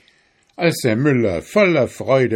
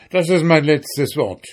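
mild, raised-pitch shout; 5 semitones higher, 4 dB louder than usual. A narrator's reading. Miller making his final offer, mildly shouting. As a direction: insist loudly, closing the haggle. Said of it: "schrie der Müller".

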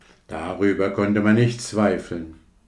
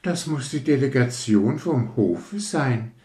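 Rakete; 6 semitones higher than usual. Acted. Rakete spricht im Märchen.

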